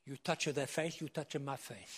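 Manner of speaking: lightly imitated Italian accent. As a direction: play it as an Italian warning someone off. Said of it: "in an Italian accent".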